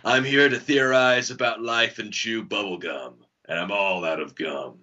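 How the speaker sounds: lightly gruff action-hero parody; a hint of a tough action hero; Duke Nukem voice. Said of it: "the most classy Duke Nukem game".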